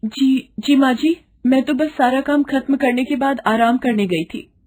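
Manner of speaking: flustered. Acted. Young bride startled awake answering her harsh mother-in-law, high and flustered. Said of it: "Gita घबरा कर उठ जाती है".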